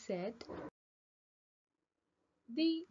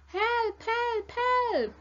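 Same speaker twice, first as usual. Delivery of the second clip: three high, loud shrieks in quick succession; alarmed storybook screaming, pitched way up; screamed cries for help; 13 semitones higher, 8 dB louder, slower than usual. A narrator's reading. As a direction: scream repeatedly for rescue. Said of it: "screamed Miss Doll".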